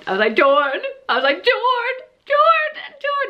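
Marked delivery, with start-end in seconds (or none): 0.4-0.8 calling out. Retold or imitated. Rushing home to show partner. 1.4-3.3 frantic calling. Retold or imitated. Frantically calling partner's name.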